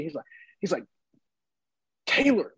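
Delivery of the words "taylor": high, punchy T at the start of "Taylor"; spat-out T. Retold or imitated. Fan greeting the player by name, spat-out T on "Taylor". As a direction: hit the T in "Taylor" hard, imitating him. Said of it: "he said it, like".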